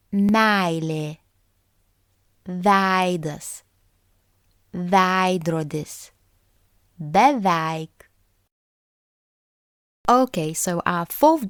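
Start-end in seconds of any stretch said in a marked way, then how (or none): 0.1-8.1 "ei" in "Meilė" opened toward a-as-in-cat and stressed; careful word list, weighting the first vowel of "ei"; prominent first vowel. Shown as a demonstration. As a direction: say "veidas" with a long open e before the i. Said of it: "the a sound is very prominent".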